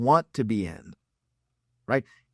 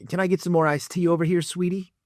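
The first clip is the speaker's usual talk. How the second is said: lightly voiced creepy older customer; a hint of a sleazy diner begging for a refill; slightly raised, wheedling creep; creepy boomer; 4 semitones higher than usual. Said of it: "like a creepy boomer at Applebee's".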